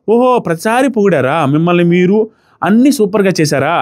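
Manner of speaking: drawn-out mock amazement; sarcastic questioning. Real, not acted. రీతుపై వ్యంగ్య ప్రశ్నలు. (వ్యంగ్యంగా, సాగదీస్తూ)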